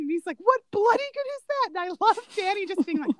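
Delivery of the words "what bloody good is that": higher, put-on indignant Australian; mock indignant Aussie. Quoting a favourite film line to a friend, mock indignant Aussie. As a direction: throw it back in disbelief, Aussie style. Retelling Cedric's retort again.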